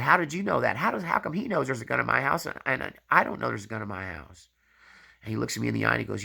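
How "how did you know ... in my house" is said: baffled wife. Retold or imitated. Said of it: "she looked at me and she said".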